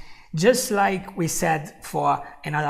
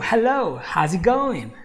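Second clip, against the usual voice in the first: friendly greeting; 4 semitones higher, 5 dB louder than usual. Shown as a demonstration. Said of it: "Now, if I say to you".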